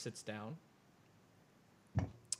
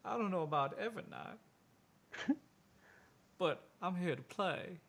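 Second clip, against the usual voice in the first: higher, mildly protesting character voice; lightly voiced Edgar; 5 semitones higher than usual. Edgar answering the dealer, in a lightly raised voice. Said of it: "He's like".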